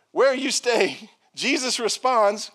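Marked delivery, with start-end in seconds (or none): 0.1-1.1 casual Franklin phrasing. Retold or imitated. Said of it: "how we would have said it in Franklin".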